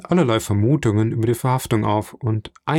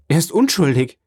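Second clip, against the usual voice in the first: higher-pitched protest of innocence; crying out; 6 semitones higher, 4 dB louder than usual. A narrator's reading. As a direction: exclaim it in distress, moderately raised. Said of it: "rief Mercedes".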